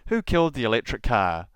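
ordinary delivery

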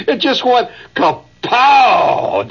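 a high, slow, drawn-out kapow; mock kapow. Telling students how the stage bed broke, a gleeful kapow. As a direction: stretch the crash sound out with glee.

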